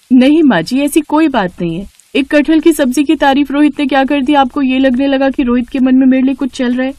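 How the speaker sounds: daughter-in-law denying feelings to her mother-in-law; flustered young woman. Acted. Aarti denies, flustered.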